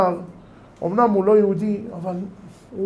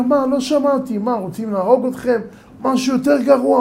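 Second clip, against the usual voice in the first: higher and louder, agitated; alarmed exclamation; 6 semitones higher, 4 dB louder than usual. Acted. Professor hears of the decree, higher and louder in alarm. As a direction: gasp out the disbelief. Professor and rabbi exchange, raised.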